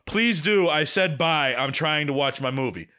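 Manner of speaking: curt annoyed reply to texts; exasperated snap. Retold or imitated. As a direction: brush her off, clearly irritated.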